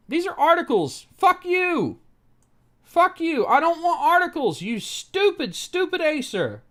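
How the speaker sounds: loud, high angry yelling at the screen; furious shout. Real, not acted. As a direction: scream your rage at the useless site. Yelling at Acer website.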